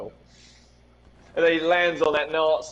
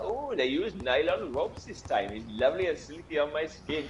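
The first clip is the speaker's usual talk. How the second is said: lazy imitation of Apu's Indian accent, unhurried; terrible Apu accent; 6 dB quieter than usual. Gamer quoting the Simpsons shop owner in a weak Indian accent. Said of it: "my terrible Apu".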